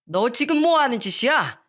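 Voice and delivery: a touch of an outraged father; father scolding his son; angry father. Acted. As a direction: snap at the son who threw the glass. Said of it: "시부가 또다시 역정을 내던".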